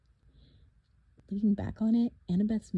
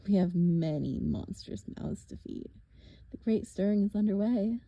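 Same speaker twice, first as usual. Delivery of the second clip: a lightly voiced, taunting monster; mock them, a touch sinister; menacing villain; 3 dB louder than usual. Villain taunting the half-blood at the cliff edge, lightly menacing. Thorne's voice.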